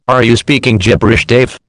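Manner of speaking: loud incredulous jab; loud mock disbelief. Real, not acted. Mocking the clip's announcer Dave, loud and incredulous. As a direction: call the announcer out, loudly.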